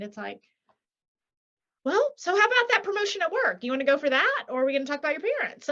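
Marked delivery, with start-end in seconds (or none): 1.8-5.7 high, quick mock therapist voice; a hint of a pushy counselor. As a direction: lightly send up a chatty therapist. Mocking a therapist's sidetracking question.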